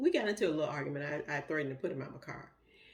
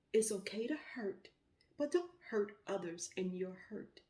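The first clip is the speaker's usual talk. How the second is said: soft whispered comfort; hushed reassurance; 3 semitones higher, 6 dB quieter than usual. Shown as a demonstration. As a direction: whisper it gently to a grieving listener. Grief advice repeated.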